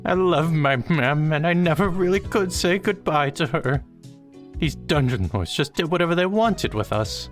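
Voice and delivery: a ghost's long-held grief bursting out; grieving little ghost. Acted. Boogie tells Slushy about being taken from his mother.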